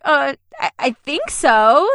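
unsure, drawn-out retold answer; hesitate, then slowly offer a doubtful yes; re-enacted uncertainty, slow and tentative; hesitant reply. Nervous reply before her audition.

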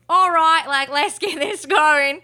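slow, lightly put-on Australian accent; Natalie Bolt impression. Fan imagining the actress starting a scene, mock Australian accent. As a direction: attempt a New Zealander with an Australian twang. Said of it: "thinking of Natalie Bolt being like".

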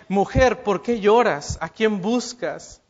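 tender "Mujer, ¿por qué lloras?", gentle and caring. Shown as a demonstration. Jesus gently asking the weeping Mary whom she seeks, tender. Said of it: "con más amor, con más cariño".

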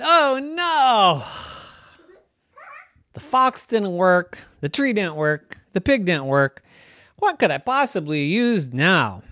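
put-on high, dismayed girl-knight voice, slowing down; a little knight at a loss, thinking aloud; young knight Wanda. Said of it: "And Wanda said".

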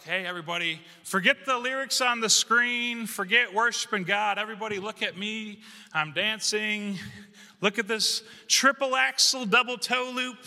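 mocking a show-off who wants all eyes on them; mock show-off dancer. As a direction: show off like a figure skater demanding eyes. Mocking attention-seeking worship dancer.

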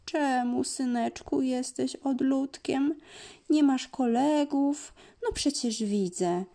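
mildly sad, worried mother cat; gently worried questioning of her son; a touch of sorrow, rising questions. Acted. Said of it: "miauczy ze smutkiem".

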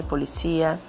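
policia said po-li-CÍ-a, stress on the í; Spanish stress. Shown as a demonstration. Teacher shows where Spanish stresses policia, on cí. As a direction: land on cí in policia. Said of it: "sílaba tônica diferente".

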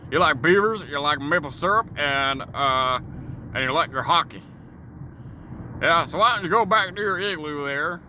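lightly voiced American firing back with stereotypes; mock an American taunting a Canadian; heckling American. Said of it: "they're gonna be firing back with".

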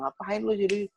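high, scolding mock of mom; mother scolding her son over his calling; angry mother. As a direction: throw it back at him like an angry mom. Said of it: "mama bilang".

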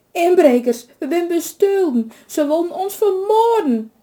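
put-on high, loud lament of a robbed old woman; wailing. A narrator's reading. Old woman wailing to her son after the robbery. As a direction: wail it out, shaken and terrified. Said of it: "jammerde de oude vrouw".

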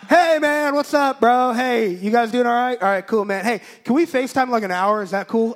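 loud, high, buddy-buddy greeting; imitated upbeat friend. Pastor casually asking for FaceTime, imitated upbeat. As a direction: hail them like an overeager bro.

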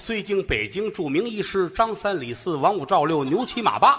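formal, rhythmic eulogy recitation; hammed-up funeral oration; mock eulogy. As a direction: recite like a solemn funeral speaker.

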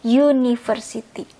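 "university" beginning "yoo", not "oo"; "yoo-niversity" for "university"; y sound in front. Shown as a demonstration. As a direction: model "university" with a clear y glide. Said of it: "Karena kita bacanya university".

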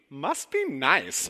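slow, drawn-out must be nice; wistful catchphrase. Retold or imitated. Pastor borrowing the coworker's line about heaven, slow and drawn. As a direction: stretch it out, half longing. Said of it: "I just kept thinking".

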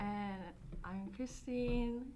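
sick, stuffed-up voice; stuffy nose. Real, not acted. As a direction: talk through a blocked nose. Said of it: "I am a little sick".

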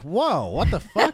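high, loud, drawn-out disbelief; retold shock with a laugh in it; startled reaction. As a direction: blurt it out slowly, half laughing. Retelling their startled reaction.

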